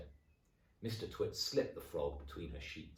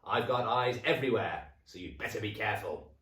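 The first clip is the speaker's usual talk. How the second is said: witchy gloat; 3 semitones higher, 5 dB louder than usual. Acted. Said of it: "cackled Missus Twit".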